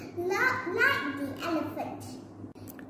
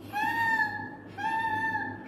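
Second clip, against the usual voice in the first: much higher cries for help; high little mouse calling for help; squeaky mouse cry; 4 dB louder, much slower than usual. Acted. Mouse squeaking for help under the elephant's foot.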